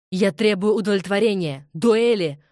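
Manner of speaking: loud, rising demand ending in a yell; shouted challenge. A narrator's reading. Robert enraged, demanding a duel, shouting. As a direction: hurl the challenge. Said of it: "выкрикнул Роберт".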